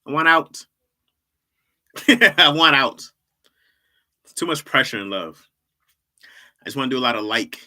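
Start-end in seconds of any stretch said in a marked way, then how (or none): 0.1-3.0 louder, higher cry on out; mock plea. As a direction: beg to escape, half-joking.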